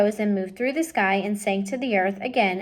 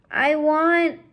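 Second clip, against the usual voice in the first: high and loud; loud start; 7 semitones higher, 5 dB louder than usual. Acted. Mig answering the princess, loud and high. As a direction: blurt it out. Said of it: "said Mig".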